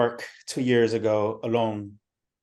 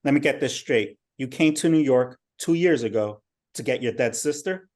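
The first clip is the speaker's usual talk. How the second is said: louder, skeptical interrogation; bad cop; 2 semitones higher, 4 dB louder than usual. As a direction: push back hard, disbelieving. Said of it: "Um, bad cop".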